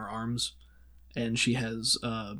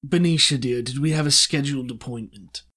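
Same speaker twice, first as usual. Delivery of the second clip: smooth villain; 4 dB louder than usual. Acted. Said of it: "and he says".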